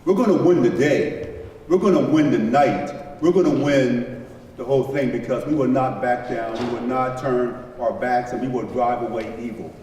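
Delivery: rally speech. Retold or imitated. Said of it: "Dave Freed said yesterday".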